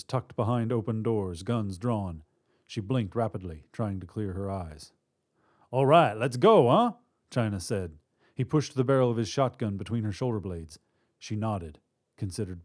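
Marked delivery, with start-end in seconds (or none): 5.7-6.9 rough order. Acted. Robber ordering.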